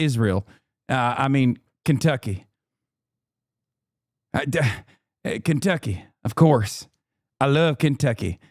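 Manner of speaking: lightly voiced mock senator, fumbling his lines; a loose, understated send-up of an old senator; McConnell impression. Streamer imitates McConnell's new voice in a loose mock. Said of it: "a much gayer voice than before".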